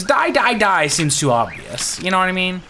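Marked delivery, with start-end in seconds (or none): 0.0-0.9 loud, high mock screaming; imitated scream. Player imitating the murderous lady, mock scream. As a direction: hammer each word high and loud, hammed-up. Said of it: "The lady that screams".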